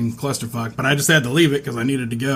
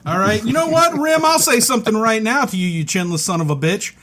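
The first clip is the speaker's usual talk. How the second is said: sudden rage; 7 semitones higher than usual. Real, not acted. Sober co-host turns on the other host out of nowhere, enraged. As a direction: burst out in anger, pitch leaping up, then sagging. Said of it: "I'm just so full of rage".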